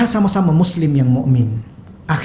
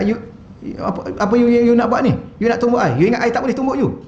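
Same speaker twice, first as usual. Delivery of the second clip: mock quarrel; 5 semitones higher than usual. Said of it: "Jangan cakap".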